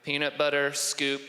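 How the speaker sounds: finding Snape's voice. Shown as a demonstration. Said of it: "I gotta find Snape's voice".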